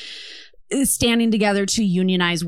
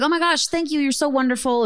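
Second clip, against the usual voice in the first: higher-pitched imitation of a grateful owner; gushing thanks; 7 semitones higher than usual. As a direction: gush your thanks as the overwhelmed recipient. Retelling owner's grateful reaction.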